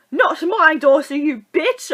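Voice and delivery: loud, high battle cry; Missus Weasley. Retold or imitated. Mother defending her daughter in film, imitated furious yell.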